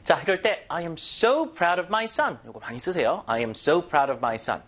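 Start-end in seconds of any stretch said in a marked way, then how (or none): 0.7-2.4 "so" drawn out and punched; stress on SO. Shown as a demonstration. Teacher models a parent's praise of a son, stress on "so". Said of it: "강세". 3.3-4.6 "so" stretched and stronger than the rest; stress on SO. Shown as a demonstration. Teacher repeats the model sentence, stress on "so". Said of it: "강세".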